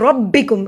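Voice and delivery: "ربکم" with full rounded r and doubled b; heavy ra. Shown as a demonstration. Teacher showing the heavy ra, "ربکم" said thickly. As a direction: make the r of "ربکم" thick and press into the b. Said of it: "را کو موٹا پڑھا جائے گا".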